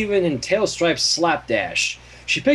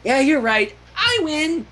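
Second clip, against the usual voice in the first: higher, grinning voice; sunny grin; 10 semitones higher, slower than usual. Acted. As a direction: say it with a smug smile. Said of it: "concluded with a sunny grin".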